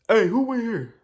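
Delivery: calling out. Retold or imitated. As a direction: call out to check if anyone's around.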